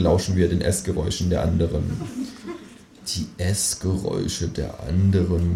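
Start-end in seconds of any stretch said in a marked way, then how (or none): 3.1-5.5 soft, slow murmur. Acted. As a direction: murmur it musingly. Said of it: "murmel ich".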